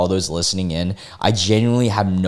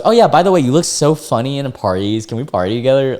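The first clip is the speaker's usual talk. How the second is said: mock cheerful flip; 3 semitones higher, faster than usual. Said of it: "he just flips over and goes".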